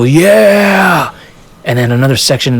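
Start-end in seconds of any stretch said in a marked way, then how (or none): 0.0-1.1 much higher, louder whoop; crowd cheer. Retold or imitated. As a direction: whoop like a section of fans. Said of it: "You hear one section go".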